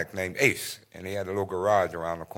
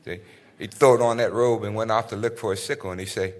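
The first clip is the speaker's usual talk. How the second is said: lightly voiced Troy Maxson, storytelling; low, easy storytelling as Troy; a hint of Troy telling his tale; 3 semitones lower than usual. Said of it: "That was Troy Maxson from Fences".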